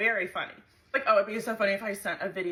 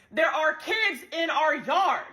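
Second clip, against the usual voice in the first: yelling warning; 7 semitones higher, 5 dB louder, slower than usual. Retold or imitated. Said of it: "still yelling".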